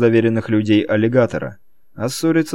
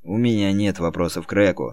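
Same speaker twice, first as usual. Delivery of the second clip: gloomy; 4 semitones lower, 5 dB quieter than usual. Acted. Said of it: "мрачно заявил Мик".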